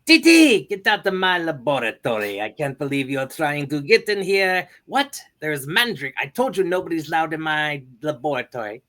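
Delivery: high, loud boy-genius cartoon voice; a bossy little scientist shooing his sister out; Dexter impression. Dexter yelling at his sister to leave his lab, high and loud. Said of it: "here we go".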